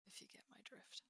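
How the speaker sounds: hushed, confidential hint; discreet whisper. Acted. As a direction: whisper it so only they catch it. Discreet hint about a private talk.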